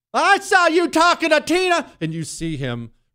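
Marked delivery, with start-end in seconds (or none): 0.1-1.9 put-on very high, slow, mad accusing cry. Speaker acts out a woman in public getting mad and loud at her man. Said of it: "like a desperate calm".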